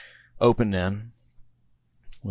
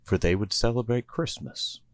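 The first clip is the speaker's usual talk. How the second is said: sing-song Christmas rhyme reading; a cozy holiday storybook narrator; storybook poem narration. A narrator's reading. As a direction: read it like a bedtime Christmas poem. Narrator reads rhyming Christmas poem.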